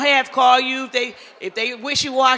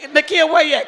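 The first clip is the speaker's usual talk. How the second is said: higher, louder call across the room; 6 semitones higher, 5 dB louder than usual. Real, not acted. Host calls Nakia up from the audience, loud call. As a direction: call her name out over the crowd.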